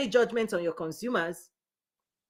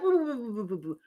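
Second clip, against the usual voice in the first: plane sputtering noise; 6 dB quieter than usual. Retold or imitated. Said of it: "pilot trying to stabilize a plane".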